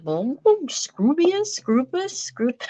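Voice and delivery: slow, lightly posh imitation of a friend; mock sophisticated. Mom mimicking Rachel saying a flower name, slow and mock-elegant. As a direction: try to say it elegantly like Rachel, slowly. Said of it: "it's all sophisticated and lovely".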